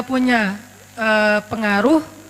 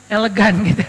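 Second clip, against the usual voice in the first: elegan broken by a real laugh; chuckling mid-word on elegan; 3 semitones lower than usual. Real, not acted.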